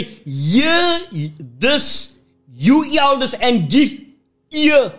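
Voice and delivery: measured, solemn Bible reading with long pauses; scripture reading. Acted. Pastor reading Joel to the congregation, solemn reading.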